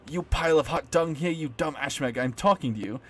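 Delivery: loud, rough insults barked at the monster; gruff bark. Acted. Jay yells insults at the gatekeeping monster, gruff bark. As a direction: bark the insults like a furious ruffian. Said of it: "her voice resembles a gruff bark".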